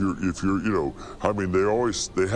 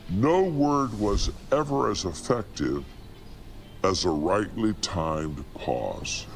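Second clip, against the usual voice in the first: slow quote with a long pause before the last phrase; slow it down and let the silence land before the end; pause before the punchline; 3 semitones lower, slower than usual. Shown as a demonstration. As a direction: demonstrate a timed pause. Quoting Mark Twain on pauses.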